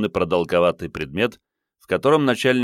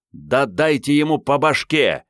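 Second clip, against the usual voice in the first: raised, high-pitched indignant cry; indignant yell; 7 semitones higher, 3 dB louder than usual. A narrator's reading. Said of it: "возмущённо заорал Генка".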